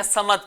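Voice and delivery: سمد with a plain thin s; wrong seen. Shown as a demonstration. Teacher repeats the error, سمد with plain seen. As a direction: say سمد quickly with an unemphatic s. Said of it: "سین پڑھتے ہیں".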